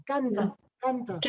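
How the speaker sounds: canta with very open a vowels. Shown as a demonstration. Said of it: "ça soit vraiment très ouvert".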